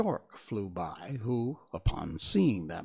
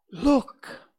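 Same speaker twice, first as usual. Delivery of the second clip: high, loud cry of alarm; 13 semitones higher, 8 dB louder than usual. A narrator's reading. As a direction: call out sharply to the others. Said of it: "the Tin Woodman cried out".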